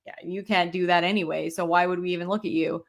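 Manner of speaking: low retold brush-off, quickening at the end; dismissive. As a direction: imitate someone offhandedly writing you off. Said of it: "when they dismiss it as".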